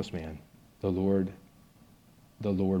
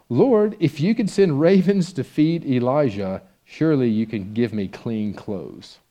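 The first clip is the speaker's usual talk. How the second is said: raised, slow, pleading plea to the Lord; earnest prayer; 3 semitones higher, 5 dB louder, slower than usual. Retold or imitated. Broke student praying aloud to God, earnest and slow. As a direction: call on God slowly with fervor.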